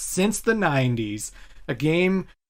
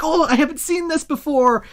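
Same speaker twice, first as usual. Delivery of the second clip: put-on childlike excitement. Player reliving a first sighting, childlike excitement. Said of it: "that childlike excitement of being like".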